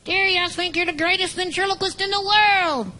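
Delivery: called out. Shown as a demonstration. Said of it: "I wanna do a whole sentence".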